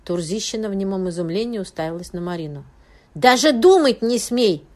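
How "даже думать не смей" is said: slow, very loud furious threat; angry warning. A narrator's reading. Friend angrily warns the widow not to call the investigator. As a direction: hammer each word as a warning. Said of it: "разгневанно произнесла Бузинова".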